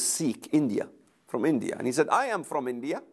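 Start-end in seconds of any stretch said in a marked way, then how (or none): 2.1-3.0 imitated Indian accent, lightly done; a light take on an Indian student's accent. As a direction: put a touch of Indian accent on it. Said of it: "you know that Indian accent".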